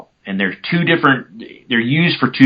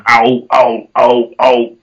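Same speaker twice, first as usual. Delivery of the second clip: low yelp imitation; 3 dB louder, much slower than usual. Shown as a demonstration. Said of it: "accentuating that lower note and almost going".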